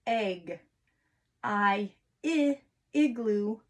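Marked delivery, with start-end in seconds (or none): 1.4-2.6 short i sound sounded out; vowel sound demo. Shown as a demonstration. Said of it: "let's do a quick review".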